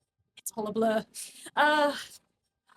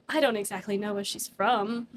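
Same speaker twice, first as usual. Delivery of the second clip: the line laughed through; laughing. Real, not acted. GM repeating the NPC line to the table, laughing. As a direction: repeat it while cracking up. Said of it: "stop with that noise".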